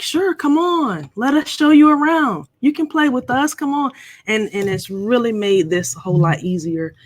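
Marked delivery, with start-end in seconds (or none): 0.0-3.9 welcoming attitude. Retold or imitated. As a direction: imitate friends eagerly waving a newcomer in. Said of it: "kinda had the attitude like".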